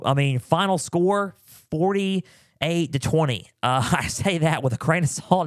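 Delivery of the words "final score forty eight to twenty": slow, halting, higher-pitched score reading; hesitant. Real, not acted. Host reluctantly giving the final score, very hesitant. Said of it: "I said that very hesitantly".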